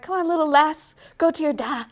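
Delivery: put-on Scottish accent. Mom sending her baby to da, playful Scottish accent. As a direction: play at coaxing a little lass in Scots. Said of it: "Scottish accent on my mind".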